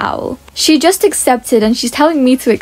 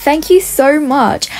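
higher, drawn-out thank-you; pretend gratitude; 4 semitones higher, slower than usual. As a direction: gush with put-on gratitude. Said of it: "act like somebody gave us".

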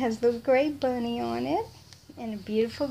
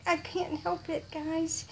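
normal talking voice

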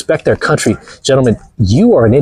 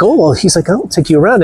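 lightly voiced airport guide; 5 semitones higher than usual.

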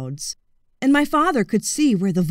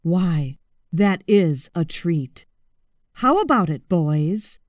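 low, slow, interested crocodile; 4 semitones lower, slower than usual. Acted. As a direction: savour the word like a treat.

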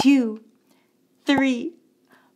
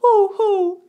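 loud owl hooting; 5 semitones higher, 7 dB louder than usual. Pretend. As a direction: hoot it with the kids. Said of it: "Let's say that together".

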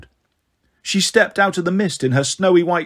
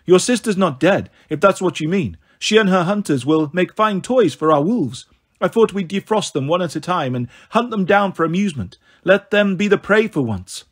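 lightly voiced cruel goddess, amused; a hint of a purring villainess; purring snow goddess. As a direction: taunt them with cool relish.

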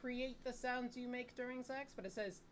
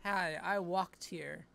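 slow, drawn-out sleazy flirt; cheesy pickup line; 7 dB louder, slower than usual.

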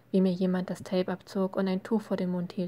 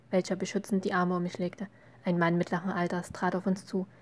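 ordinary delivery

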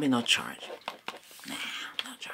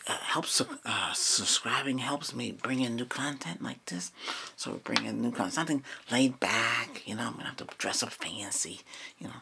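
whispering; 2 semitones lower than usual. Acted. ASMR whisper.

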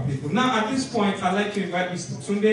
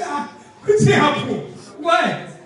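high, loud startled cry; retold crowd shock, high and loud; shocked onlookers; 7 semitones higher, 7 dB louder than usual. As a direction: gasp out the question in alarm.

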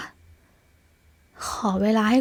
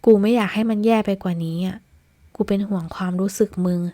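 plain reading voice

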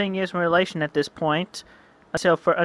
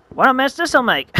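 higher, louder gloating cry; gleeful villain; 8 semitones higher, 6 dB louder than usual. Acted. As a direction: relish the chaos about to come.

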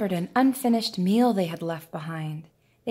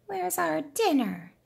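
much higher, slow cat voice; hungry cats; 9 semitones higher than usual. Acted. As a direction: stretch it out like a whining cat. Hungry cats ask the rooster.

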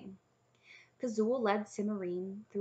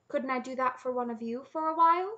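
hopeful princess; 6 semitones higher, 6 dB louder than usual. A narrator's reading. Princess timidly offers herself to dragons.

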